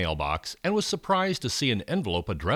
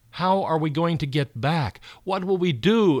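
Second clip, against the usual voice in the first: rising, louder panicked questions; scared exclamation; 6 semitones higher, 4 dB louder than usual. Acted. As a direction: cry it out with fear and uncertainty. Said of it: "exclaimed Sally and Bryce".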